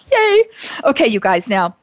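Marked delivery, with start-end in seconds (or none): 0.1-0.4 cheerful yay. Real, not acted. Cheerful cheer after thanks.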